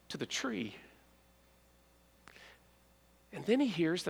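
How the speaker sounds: soft and slow, near a whisper; hushed tender storytelling. Acted. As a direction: draw out the moment quietly. Jesus calls his name, tender moment.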